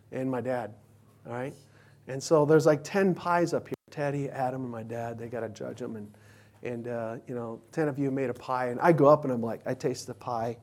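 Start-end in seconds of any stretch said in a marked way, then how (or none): none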